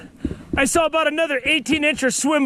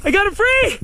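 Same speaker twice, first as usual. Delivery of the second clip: excited shouting; 8 semitones higher than usual. Real, not acted. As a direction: yell it out with rising excitement. Fish tangled, excited yelling at fish.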